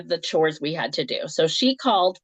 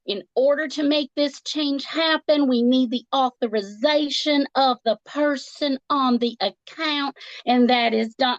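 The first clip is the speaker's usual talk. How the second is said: high Southern phone rep repeating her script; insistent, sing-song Southern customer service voice; Southern script reciting; 6 semitones higher than usual. Retold or imitated. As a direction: mimic a happy Southern agent stuck on script. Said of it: "repeated the same script over and over".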